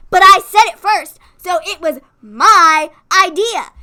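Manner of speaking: loud, slow insistence; mock indignant. Wife insisting the idea was hers, loud and slow. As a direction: drag out my idea like a wronged kid. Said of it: "and I was like".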